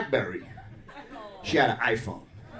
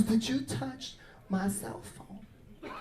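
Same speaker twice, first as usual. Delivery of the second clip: put-on slow accusing girlfriend; 6 semitones higher, 12 dB quieter, much slower than usual.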